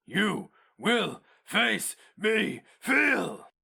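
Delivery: very high, slow, shrieking creature shout; monstrous shouted challenge. A narrator's reading. The Inkoroi challenging the hero mage, shrieking creature shout.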